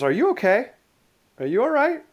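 concerned high-pitched asking; worried check-in. Retold or imitated. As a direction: ask like a startled captain who just saved you. Captain checks on shaken trainee.

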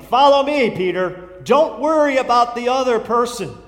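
loud, emphatic call of Follow me; firm preacher's command. Acted. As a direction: hammer the command home as Jesus. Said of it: "Emphatically, he says it, exclamation point".

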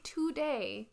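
today said as "too-day"; East Coast "today". Shown as a demonstration. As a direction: give today a full oo in the first syllable. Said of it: "East Coast feel to it".

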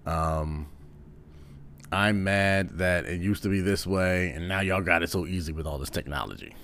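put-on a mild grumpy old man griping about the kids; lightly voiced old-timer complaining, not far from his own voice; angry old man voice. Shown as a demonstration. Comedian shows the standard angry old man voice, a mild grouch. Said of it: "That is just the voice".

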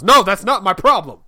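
loud, high-pitched comic protest; mock exasperated. Father correcting wife about the real problem, mock angry. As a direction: protest with hammed-up outrage. Acted father rejecting wife's scolding.

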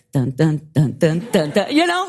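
low, ominous "dun dun" pulse; mock-ominous repeated beats; imitated suspense theme. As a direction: mimic creeping shark-movie music. Imitates ominous music heard in ocean.

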